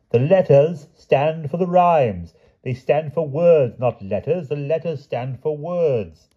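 high, slow, emphatic explanation; insistent explaining knight. A narrator's reading. Sir Palomides explains rhyme to the king, slow and insistent.

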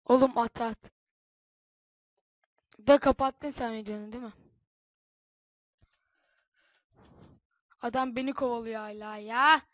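loud calls across the game; shouting. Real, not acted. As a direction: shout over to the friend. Arkadaşa bağırarak konuşma. (bağırarak)

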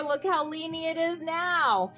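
ordinary delivery

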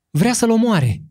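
high, loud frightened cry; mother's cry. A narrator's reading. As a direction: cry out to shield her child. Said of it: "răcni duioasa mumă".

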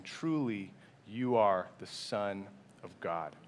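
slow, low and soft, in awe; reverent worship. A narrator's reading. Preacher reading the boat's worship of Jesus, slow and reverent. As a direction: let it sink into hushed reverence. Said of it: "worshiped him, saying".

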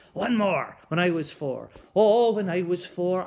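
lightly growled singsong pirate. Acted. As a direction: belt it like a jolly pirate. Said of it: "that crazy pirate voice".

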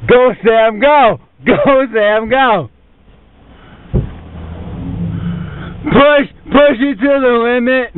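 straining and cheering on; pushing something heavy. Real, not acted. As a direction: shout while heaving a car. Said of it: "We're pushing the car right now".

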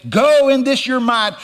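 high, loud divine command; preacher voicing God's order. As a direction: send him out with force. Acts out the Lord's command.

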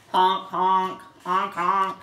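punchy honks in pairs; goose honk. Acted. Parent showing what the goose says, punchy honking. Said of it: "the goose says".

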